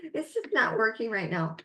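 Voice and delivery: half-acted victim whine; weak, defeated demo. Shown as a demonstration. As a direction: sound beaten down and unsure. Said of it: "You can hear that in my voice".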